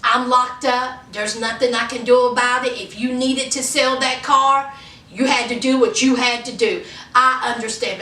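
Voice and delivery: low, accepting imagined reply; understanding partner. Pretend. Jailed man accepting that his car was sold, understanding. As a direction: play him calmly letting it go. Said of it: "instead of Lamar being".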